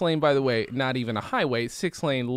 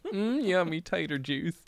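slow, softer put-on Idaho-Czech accent; mock Idaho-Czech accent; 2 semitones higher, 5 dB quieter than usual. Local relishing the tater juice, mock Idaho-Czech accent. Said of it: "We have very similar accents".

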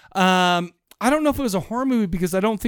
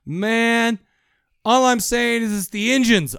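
higher-pitched mock redneck griping; redneck townsman; 6 semitones higher, 4 dB louder, slower than usual. Townsfolk getting a posse together, redneck griping. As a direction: play an aggrieved small-town redneck. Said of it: "this is a redneck mother effing town".

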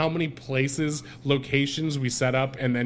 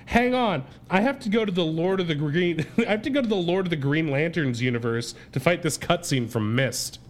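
mock movie dialogue. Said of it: "my attempt at dialogue for this movie".

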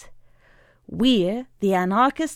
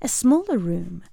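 cooing; 4 semitones higher than usual. Acted. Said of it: "coos the manager".

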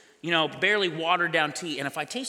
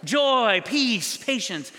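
a touch of higher, self-satisfied bragging; hammed-up instant holiness after a pill; mock boast; 4 semitones higher, slower than usual. Preacher imagines instant holiness after a pill, mock boast. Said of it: "all of a sudden it's like".

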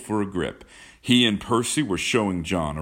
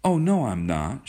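put-on higher, protesting girlish exclamation; hurried exclamation; 7 semitones higher, 3 dB louder than usual. A narrator's reading. Kismine denies being sophisticated, hurriedly exclaiming. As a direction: exclaim it in hasty denial. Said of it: "she exclaimed hurriedly".

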